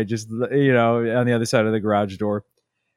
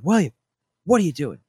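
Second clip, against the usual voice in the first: mock yell; 8 semitones higher than usual. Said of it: "so she yells at him".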